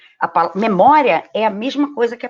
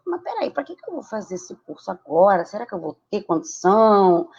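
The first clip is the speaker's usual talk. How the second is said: doubtful inner voice. Retold or imitated. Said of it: "você para e diz assim".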